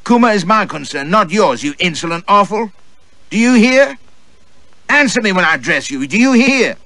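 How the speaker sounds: shrill furious tirade, high and loud. Acted. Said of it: "she fairly hissed in fury".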